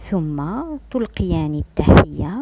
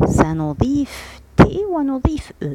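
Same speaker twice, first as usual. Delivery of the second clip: whisper; 9 semitones higher than usual. Shown as a demonstration. Teacher explaining spelling.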